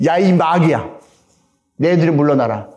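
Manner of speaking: ordinary talk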